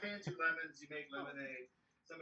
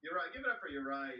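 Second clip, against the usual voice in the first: usual speaking voice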